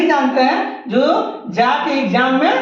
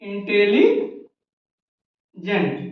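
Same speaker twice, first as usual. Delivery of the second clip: slow spelling; 5 semitones lower, much slower than usual. Shown as a demonstration. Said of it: "इसको कैसे लिखना है?".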